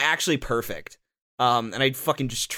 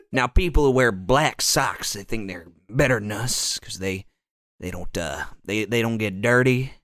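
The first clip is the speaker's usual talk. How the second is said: racist character delivery; 3 semitones lower than usual. Pretend. Mocking black sock wearers in a racist TV character voice. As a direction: savor every word with a hint of a Southern bigot. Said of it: "That's the delivery of all these racist characters".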